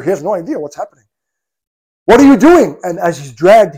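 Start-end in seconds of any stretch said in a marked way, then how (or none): 2.1-2.8 raised, loud pleading cry; anguished cry. Retold or imitated. Abu Jandal crying out as he is dragged away.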